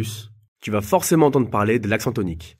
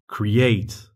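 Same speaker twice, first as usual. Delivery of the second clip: create with the last syllable stressed, cre-ATE, said slowly. Shown as a demonstration. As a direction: land on the end of create. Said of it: "accentuer la dernière syllabe". (accent sur la dernière syllabe de create)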